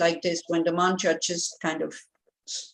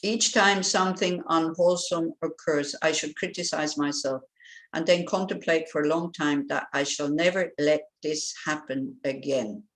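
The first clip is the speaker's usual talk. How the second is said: slow verse reading; 2 semitones lower than usual. Shown as a demonstration. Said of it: "we look at it again".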